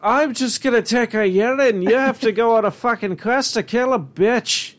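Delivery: bad Irish accent. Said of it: "the worst Irish accent right now".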